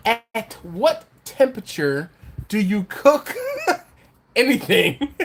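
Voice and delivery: breaking into giggles mid-question; high, slow and laughing through the words. Real, not acted. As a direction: struggle to finish the question for laughing. Giggling over the word, laughs heard.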